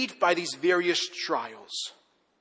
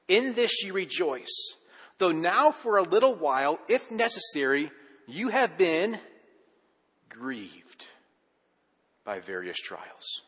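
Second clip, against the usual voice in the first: scripture reading; slower than usual. Acted.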